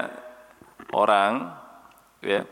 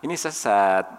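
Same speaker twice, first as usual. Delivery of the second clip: low-pitched, easygoing remark; easy conversational tone; 4 semitones lower than usual. Shown as a demonstration. Showing how it sounds in pleasant chat, easygoing. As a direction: say it as friendly chat. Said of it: "kalau ngobrol sudah enak".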